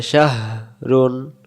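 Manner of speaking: শাহরুন slowly, with the h breathed out clearly; audible floated h. Shown as a demonstration. Teacher showing learners the h, শাহরুন slow with audible h. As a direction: let the h float up in the middle of শাহরুন. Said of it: "ভেসে উঠবে".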